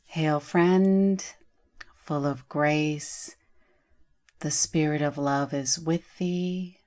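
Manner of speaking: slow, measured recitation of a prayer; unhurried opening invocation; prayerful blessing. Acted. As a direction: recite it as a blessing, pausing between phrases. Recites adapted Hail Mary blessing.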